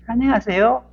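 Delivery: polite bow greeting. Shown as a demonstration. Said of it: "이렇게 하고 그렇게 가르쳐요".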